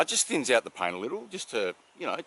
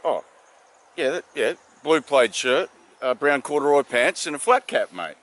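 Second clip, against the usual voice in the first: cheerful; 4 semitones higher, 9 dB louder than usual. Retold or imitated. Epstein answers cop.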